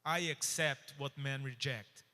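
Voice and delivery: measured oracle, each word given room; prophetic pronouncement. Retold or imitated. American prophet declaring the Lord's word to the wife, slow pronouncement. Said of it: "ele falou, Assim te diz o Senhor".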